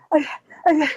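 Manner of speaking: mock panting, words caught short; out of breath. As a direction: gasp for air while trying to speak. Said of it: "I'm out of breath".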